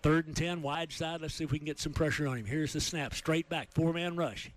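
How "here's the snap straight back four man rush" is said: climbing pitch as the play breaks open; rising play-by-play excitement. Real, not acted. Announcer calling a scramble for the radio crowd, building excitement. Big broken play unfolding live.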